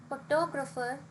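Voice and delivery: "photographer" as pho-TOG-rapher; "photographer" with the weight on its second syllable; stress on second syllable. Shown as a demonstration. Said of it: "has stress on the second".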